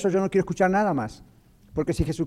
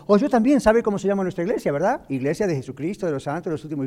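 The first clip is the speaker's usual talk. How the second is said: mock Mormon; 2 semitones higher than usual. Voicing a Mormon at the door.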